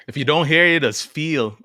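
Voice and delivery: put-on light Caribbean accent, mom's warning; lightly imitating a Caribbean mom. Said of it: "You gotta say it with some Caribbean accent".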